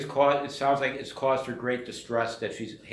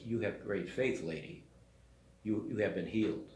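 softer, tender, almost hushed; gentle commendation; 3 semitones lower, 6 dB quieter than usual. Retold or imitated. Jesus tenderly praising the woman's faith, softly. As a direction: speak to her kindly and quietly.

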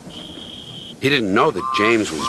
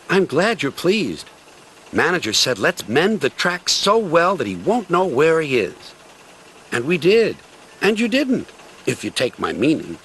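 lightly voiced cheerful diesel; a touch higher, pleased little diesel; Rusty the diesel; 5 semitones higher than usual. Rusty speaks.

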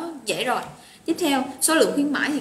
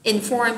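"Inform" with the weight on "-form"; stress on second syllable. Shown as a demonstration. Teacher modelling word stress for students, "Inform" stressed on syllable two. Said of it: "nhấn trọng âm âm số hai".

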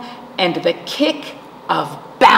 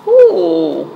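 pleased ooh; 3 semitones lower, 5 dB louder than usual. A narrator's reading. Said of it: "says Acorn".

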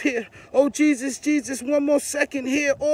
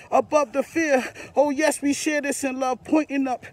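prayer building back up with strong declarations; renewed fervent prayer. Real, not acted. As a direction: declare it across the world. Prayer rising again.

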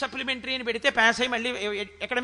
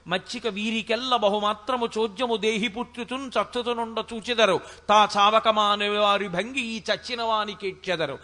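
chanted verse on a low, even tone; poem recitation; 3 semitones lower than usual. Acted. Preacher quoting Potana's Bhagavatam verse to listeners, chanted recitation. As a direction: intone the Telugu verse steadily.

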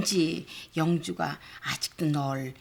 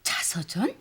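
whispering; 2 semitones lower than usual. Acted. Mother mulling over autobiography idea.

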